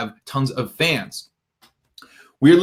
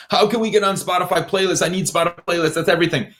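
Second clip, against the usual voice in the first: lightly voiced fixated musician, higher pitched; playlist-obsessed artist; 5 semitones higher, faster than usual. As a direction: plead a little, as if obsessed. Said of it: "has been totally obsessed with playlists".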